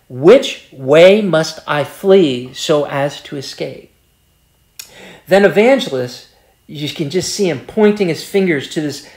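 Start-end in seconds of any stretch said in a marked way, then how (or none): 0.1-3.9 slow, lower, measured reading; careful question. Retold or imitated. Preacher voicing Christian asking Evangelist the way, slow and careful. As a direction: ask it carefully, with a touch of weight. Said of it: "very carefully and says".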